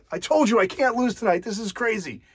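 a touch of glee, bragging to the stranger; the drunk man brags to you at the bar, lightly excited; excited gloat. Retold or imitated. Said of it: "he gets super excited".

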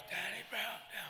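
high, loud crowd chant; imitated crowd call. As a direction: call it out like fans out front. Crowd heard calling from backstage.

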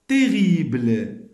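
slow, loud, each word said alone; slow clear word list; word reading drill. Shown as a demonstration. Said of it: "Je lis bien les mots".

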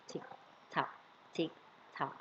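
tick-tock in short, spaced beats; ticking clock. Pretend. Teacher gives pupils thinking time, ticking like a clock. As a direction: count down like a clock, one beat at a time.

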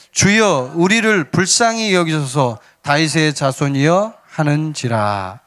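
measured, declaimed Bible reading; scripture reading. Acted. Pastor leading the congregation in reading the verse, declaimed scripture reading. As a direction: read the verse aloud to a congregation.

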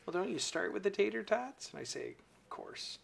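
folksy Midwestern storyteller; Midwestern accent. Pretend. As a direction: Midwestern housewife voice. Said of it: "haven't you done a Midwestern".

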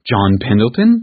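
understated horrified aunt; mild horror. Acted. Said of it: "she cried in horror".

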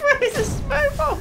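frantic shouting. Real, not acted. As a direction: shout orders in a panic. Frantic fight with monster.

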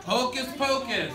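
singsong cue with a laugh in it; teacher calls the class with a laugh; laughing attention call. Real, not acted. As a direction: chuckle through the call.

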